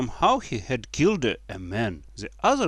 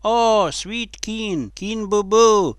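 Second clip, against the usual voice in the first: high, drawn-out loud cry; shouted mock homage; 9 semitones higher, 6 dB louder, slower than usual. A narrator's reading. Kneeling crowd mocks the king, high loud shout. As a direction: wail it grandly in mock worship. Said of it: "began to shout".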